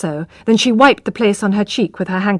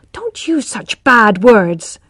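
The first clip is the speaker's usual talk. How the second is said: indignant; slower than usual. Acted. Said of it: "cried Tess".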